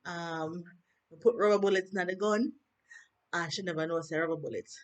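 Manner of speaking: Gary's excuse in light Jamaican patois; lightly voiced Jamaican patois, casual explaining. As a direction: retell his excuse in patois. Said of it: "and he's like".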